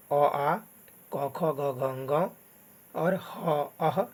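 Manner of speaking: "अ, आ, क, ख, ग, घ" sounded from the throat; throat sounds. Shown as a demonstration. Teacher showing learners which letters come from the throat, throat sounds. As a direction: recite "अ, आ, क, ख, ग, घ" one by one as throat letters. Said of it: "कंठ से उच्चारण होता है".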